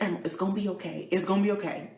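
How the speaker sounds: soft, soothing mom quote; calm a panicking daughter gently; imitated reassurance. Mother soothing her, acted out.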